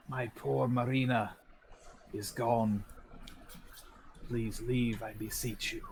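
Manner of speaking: lightly voiced mournful ghost, halting; ghostly. Ghost mourning Marina and begging them to leave, ghostly. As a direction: lament in broken phrases like a phantom. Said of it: "ghostly fashion".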